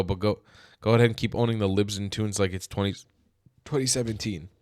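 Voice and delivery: put-on a light Australian accent, read fast. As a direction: read the post quickly in a mild Aussie accent. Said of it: "I read this in an Australian accent".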